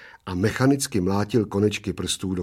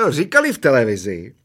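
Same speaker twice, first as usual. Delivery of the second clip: quiet roar; 8 semitones higher, 6 dB louder than usual. Acted. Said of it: "relativně tiše zařval".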